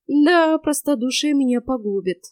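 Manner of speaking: hammed-up sigh of regret, Да pitched high and loud; mock lament. Yaga fakes self-pity to the boy, mock lament. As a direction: pretend to grieve over your own naivety. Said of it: "сокрушилась я".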